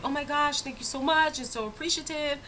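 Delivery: high-pitched mock gush of thanks; gushing gratitude. Retold grateful customer gushing thanks.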